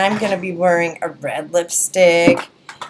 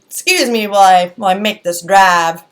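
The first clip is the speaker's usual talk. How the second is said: mock Southern accent; 7 dB louder than usual. Vlogger goofing mid-review, mock Southern accent. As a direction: put on a playful fake Southern accent. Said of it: "we don't have Southern accents here".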